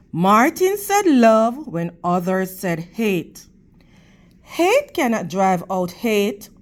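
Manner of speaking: expressive storybook reading for the class; teacher's read-aloud voice; reading to children. Acted. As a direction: read it to the kids, clear and gentle.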